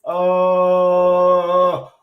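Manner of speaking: loud, high excited cry; excited yell. Real, not acted. Watching Bitcoin pump live, loud excited cry.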